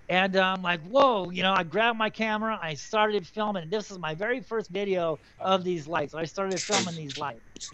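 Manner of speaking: crackly distorted USB mic; mic too close, popping plosives. Real, not acted. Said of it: "'Cause your mic is popping".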